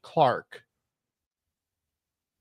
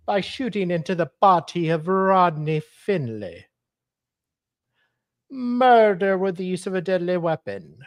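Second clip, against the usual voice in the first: put-on Hispanic accent. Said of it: "I'm trying to do a Hispanic accent".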